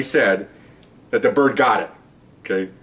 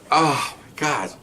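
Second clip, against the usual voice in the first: floored; 2 semitones higher, 3 dB quieter, much slower than usual. Retold or imitated. Onlookers floored by parrot's answer.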